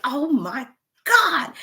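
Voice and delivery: slow, strained, almost tearful "oh my God"; near-crying groan. Retold or imitated. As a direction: let it crack like you're worn out. Muscles burning during workout.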